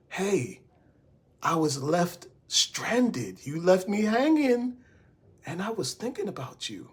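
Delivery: soft, gentle, inviting. Shown as a demonstration. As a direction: let it sound welcoming and soft. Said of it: "That's inviting".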